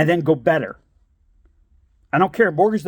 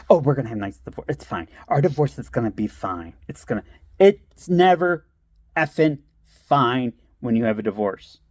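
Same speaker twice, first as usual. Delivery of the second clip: mock naive cheer; 4 semitones lower than usual. Mocking naive divorce optimism.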